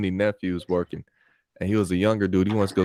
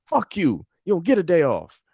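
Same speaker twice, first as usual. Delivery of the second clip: higher mock yell; imitating loud boss; 10 semitones higher, 4 dB louder than usual. Boss cursing the worker out, mock loud. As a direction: shout it like the pizza boss. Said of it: "they was loud to the motherfucker talking like that".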